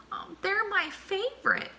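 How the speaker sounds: a touch of hurt feelings; mild sniff. A narrator's reading. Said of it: "sniffed Armadillo".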